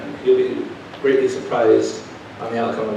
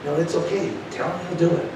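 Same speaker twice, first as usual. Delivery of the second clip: God; 6 semitones higher, 5 dB quieter than usual. Retold or imitated. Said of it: "God put his hands on my shoulders and said".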